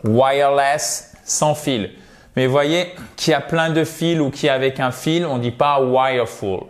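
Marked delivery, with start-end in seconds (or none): 0.0-1.1 slow model word. Shown as a demonstration. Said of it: "Le fil, c'est wire".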